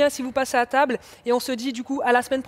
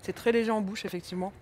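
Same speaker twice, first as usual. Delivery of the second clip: messy eating; 4 dB quieter than usual. Real, not acted. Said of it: "Désolée, je parle la bouche pleine".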